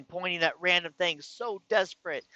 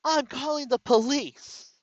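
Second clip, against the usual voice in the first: higher, louder and slow, every word spelled out; threatening call; 11 semitones higher, 6 dB louder than usual. Retold or imitated. Wife threatens her husband, higher, louder, slow threat. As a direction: make the threat ring out. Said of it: "she says".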